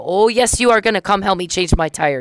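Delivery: insistent retort. Retold or imitated. Telling the trooper he will come change her tire, insistently. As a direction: demand it with a teasing push.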